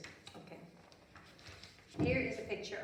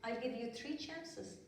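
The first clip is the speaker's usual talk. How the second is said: slow warning; 5 dB quieter, slower than usual. Acted. Fairy warns slowly.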